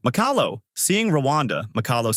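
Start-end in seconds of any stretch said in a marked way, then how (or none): 0.1-0.6 mild high-pitched call. A narrator's reading. Father calls after his runaway daughter, mild calling out. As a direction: call the name out without much volume. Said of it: "as her father calls out".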